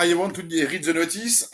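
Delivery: put-on slow, heavy French accent on English words; mocking French accent in English. Mocking the band's French-accented English. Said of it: "Ah, l'accent".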